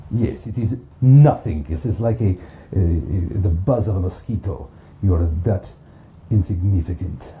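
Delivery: booming villain voice mocking the hero; lightly voiced gloating villain; villain taunt. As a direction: sneer down at a puny foe.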